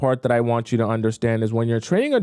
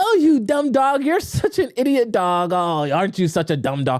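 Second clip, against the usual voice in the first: eager, gushing, high, swooping, excited voice; 8 semitones higher than usual. Showing how you can insult a dog and it still gets happy, excited voice. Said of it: "in an excited voice".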